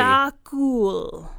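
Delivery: Sakul said slowly, each syllable separate; over enunciating. Shown as a demonstration. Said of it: "let me say it really slowly for you guys".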